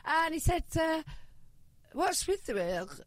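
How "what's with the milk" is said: slow, abandoned attempt at a French accent. Customer asks the seller about sausages, attempted French accent. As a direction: try a French accent, drawn out. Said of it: "I'm not gonna do an accent".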